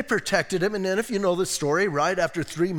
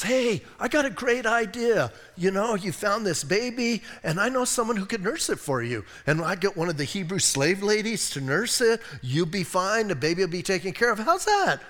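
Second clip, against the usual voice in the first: eager sister; 3 semitones higher than usual. Retold or imitated. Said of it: "she goes".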